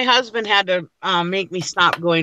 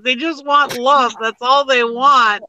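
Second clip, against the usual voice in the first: slow, slightly raised plea; retold pleading; 4 semitones higher, slower than usual. Wife pleading with husband for shelter dogs, slow and imploring. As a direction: plead it, stretching the words.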